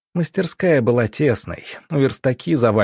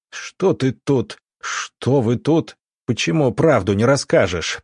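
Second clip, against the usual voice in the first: growled; 2 semitones higher than usual. Acted. Doctor growls at lying colleague, angry growl. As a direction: growl the question at him. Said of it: "прорычал доктор".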